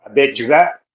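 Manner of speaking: talking through a bite of food; speaking while chewing; mouth full. Real, not acted. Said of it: "I got food in my mouth".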